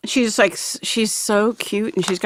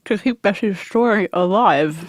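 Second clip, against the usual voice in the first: talking through a mouthful of peanut butter; slow, words around a bite; mouth full. Real, not acted. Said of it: "One more bite".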